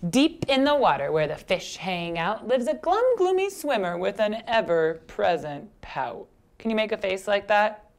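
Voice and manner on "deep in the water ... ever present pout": lilting picture-book reading; story narration. A narrator's reading. Teacher reads rhyming fish story to children, storytelling. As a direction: read it to little children with swing.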